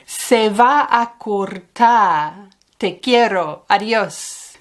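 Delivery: "Se va a cortar" drawn out slowly, then a quick fading goodbye; a caller whose coins are running out; hurried phone goodbye. Retold or imitated. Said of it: "Solías tener que decir".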